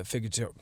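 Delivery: "figator-" cut off before the ending; stumbling over word. Real, not acted. Host failing to say a word this morning, stumbling on "figator-". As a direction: try "figator-" and give up midway. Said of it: "I can't even say it".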